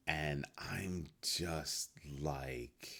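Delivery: slow, breathy whisper. Real, not acted. Vlogger reacting skeptically to a headline, slow whisper. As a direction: drop to a whisper, slowly.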